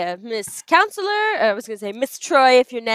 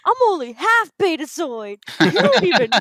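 bratty daughter; 6 semitones higher than usual. Acted. Daughter yelling at her mother.

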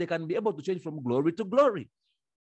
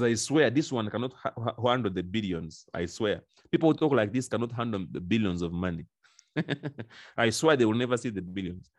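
lowered solemn voice of God swearing; God's oath, low; 5 semitones lower than usual. Retold or imitated. Preacher voicing God's oath to complainers, low and grave. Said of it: "He says".

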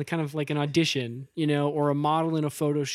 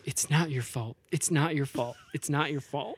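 soothing; 3 semitones lower, 5 dB quieter than usual. Retold or imitated. Character hugging herself, soothing.

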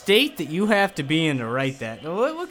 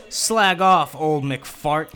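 understated snarl, louder at the start; mild mock snarl; 4 dB louder, much slower than usual. Louie talking back to Scrooge, lightly acted snarl. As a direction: push out the first words, lightly sneered. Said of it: "snarled Louie".

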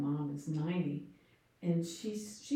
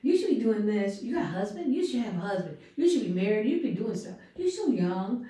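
insistent retold pep talk, pitched up; insistent urging; 2 semitones higher, 6 dB louder than usual. Elderly client urges her cleaner to act young, insistent. Retelling ninety-year-old woman urging her.

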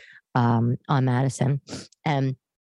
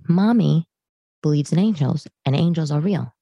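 firm retort; 4 dB louder than usual. Retold or imitated. Mother firmly answers daughters' complaint.

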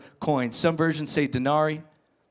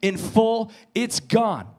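cheerful bank caller; 4 semitones higher than usual. Pretend. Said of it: "you get a phone call from the bank and they say".

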